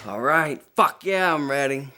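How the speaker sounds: fired-up retold answer, rising on the swear; pumped-up reply. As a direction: psych yourself up and announce it. Answering as the bulls are released.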